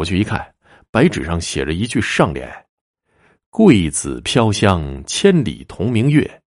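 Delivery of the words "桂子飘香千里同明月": slow, measured verse recital; reciting a couplet. A narrator's reading. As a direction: read it out slowly, phrase by phrase. Reads out written couplet line.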